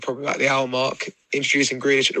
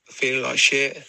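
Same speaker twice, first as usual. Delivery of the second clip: drag queen voice. Real, not acted. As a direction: drag queen voice after a big day. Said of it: "Return of the drag queen voice of feeling like shit".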